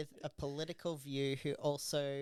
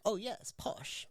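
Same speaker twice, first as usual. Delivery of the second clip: slow, higher mock approval; mock-impressed; 6 semitones higher than usual. Host mimics people who think any English accent is posh, mock-impressed. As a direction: lightly imitate someone easily impressed.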